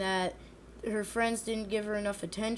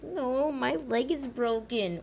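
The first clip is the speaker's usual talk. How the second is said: slow, lightly whiny joke excuse; mock whine; 2 semitones higher, slower than usual. Classmates dodging work with the meme, slow mock whine. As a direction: drag it out like a lame meme excuse. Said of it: "they're like".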